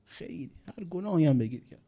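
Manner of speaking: hushed, ashamed whisper; whispered confession. Acted. A young sinner confessing to the imam in a whisper. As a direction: breathe the confession out with no voice.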